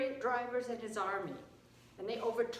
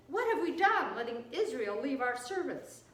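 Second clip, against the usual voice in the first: alarmed regret; 3 semitones higher, 5 dB louder than usual. Acted. Egyptian officials regretting they freed Israel, alarmed outcry. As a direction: burst out in regret, then ease down.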